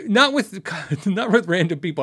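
laughing through the words; amused, words breaking into laughter. Real, not acted. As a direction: chuckle while getting it out. Laughing at fans dropping his name.

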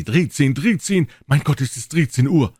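high, loud dismay; alarmed old men. Acted. Old men horrified it is thirteen o'clock, high and loud. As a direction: cry it out in disbelief.

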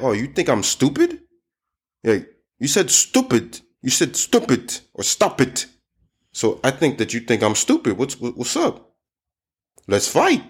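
playfully spoiling for a fight; mock offended. Teacher acting someone who misheard stupid, mock offended. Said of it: "sometimes people could be like".

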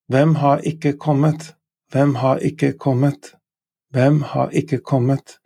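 "Hvem har ikke kommet" stressed on "Hvem"; Norwegian question. Shown as a demonstration. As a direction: model for learners. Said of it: "Who has not arrived?".

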